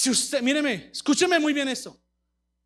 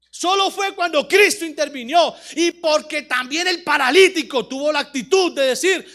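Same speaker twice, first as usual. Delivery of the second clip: loud, driving sermon delivery; preaching at full force; 6 dB louder than usual. Real, not acted. Preacher rebuking the paralytic's passivity, full-force preaching. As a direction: hammer the key words, preacher-style.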